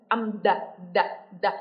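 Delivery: isolated, repeated "đ" with tongue out; voiced TH demo. Shown as a demonstration. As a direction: sound out "đ" as a short voiced TH. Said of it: "cách phát âm của nó là âm v".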